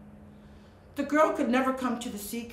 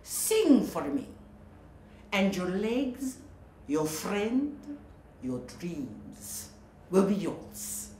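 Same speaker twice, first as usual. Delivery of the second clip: slow, soft, lower temptation; tempting witch; 3 semitones lower, 4 dB quieter, slower than usual. Acted. Sea witch tempting Melody to sing, slow and soft. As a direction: lure her slowly.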